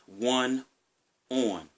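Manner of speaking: "on" said the Maryland way, drawn like "own". Shown as a demonstration. Vlogger showing the Maryland "on" to viewers, local accent. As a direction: Maryland vowel on "on". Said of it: "you just heard me say".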